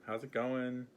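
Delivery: lightly acted hello, starting high and easing down; friendly greeting. Healer showing viewers how to greet the earth, friendly. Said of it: "Just be like".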